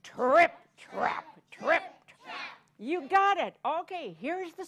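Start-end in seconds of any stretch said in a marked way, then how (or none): 0.0-2.6 heavier, bolder trip trap; big goat steps. Shown as a demonstration. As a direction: stomp it out like the largest goat. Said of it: "let's hear it".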